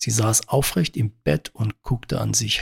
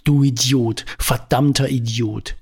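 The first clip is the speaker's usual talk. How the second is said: furious yelling. Acted. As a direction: let rip at him, outraged. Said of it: "schrie sie ihn noch lauter als vorhin an". (wütend geschrien)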